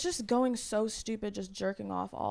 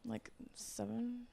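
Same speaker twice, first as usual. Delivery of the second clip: scoffing; 2 semitones higher, 13 dB quieter, much slower than usual. Real, not acted. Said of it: "she was scoffing at seven".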